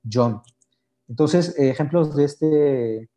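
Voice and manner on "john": "John" con consonante inicial suave y sonora; sonido suave CHH. Shown as a demonstration. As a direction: pronunciar "John" con una j inglesa. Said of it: "con C H H". ("John" con sonido suave y sonoro, como en zapoteco)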